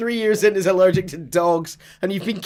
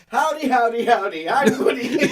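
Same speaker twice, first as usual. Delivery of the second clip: Woody; 4 semitones higher than usual. Retold or imitated. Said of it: "is it Rex?".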